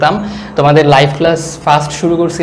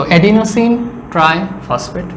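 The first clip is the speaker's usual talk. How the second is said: slow spelled-out term; much slower than usual. Shown as a demonstration. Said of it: "So, be focused".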